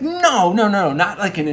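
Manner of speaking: high, emphatic mock protest; playfully frustrated "no"; flustered objection. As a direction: object hurriedly to a friend, hammed up. Acted objection in childhood debate.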